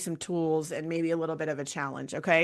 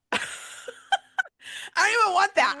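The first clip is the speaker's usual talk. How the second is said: louder, higher, with stress on "don't"; emphatic repeat; 14 semitones higher, 4 dB louder, faster than usual. Real, not acted. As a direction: push hard on "don't" the second time. Repeats the line with more emphasis.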